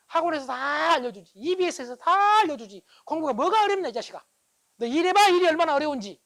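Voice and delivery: loud, high-pitched mock parental rant; scolding parent. Parent telling off a child about studying, angry shouting.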